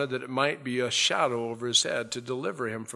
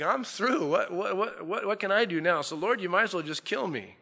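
despairing Jonah; 7 semitones higher than usual. Retold or imitated. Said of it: "he's like".

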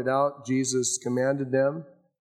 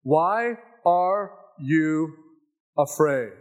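very slow, drawn-out question; Jesus asking gently; 2 semitones higher, 4 dB louder, much slower than usual. Acted. Jesus questioning his fearful disciples, slow and calm. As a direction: stretch each word, calm and searching. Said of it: "Jesus said unto them".

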